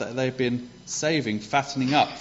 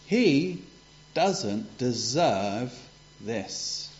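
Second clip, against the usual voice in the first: resentful; much slower than usual. Retold or imitated. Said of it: "he was really angry".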